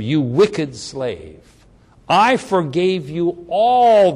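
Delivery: slow, measured stern master; stern rebuke. Acted. Master rebukes the wicked slave, slow stern rebuke. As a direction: lay the charge down slowly, weighty. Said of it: "his Lord said to him".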